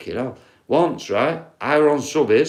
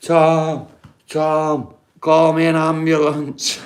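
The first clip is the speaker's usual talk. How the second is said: retold scream; 4 semitones higher, slower than usual. Housemate begs Tom for an ambulance, mild mock yell. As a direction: call for help like a panicking housemate, half-hearted. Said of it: "The guy was screaming".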